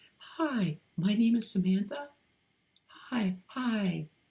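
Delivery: very high, slow, syrupy feminine voice. Showing how people use a trigger phrase to switch voices: feminine voice. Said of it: "slip into their feminine voice".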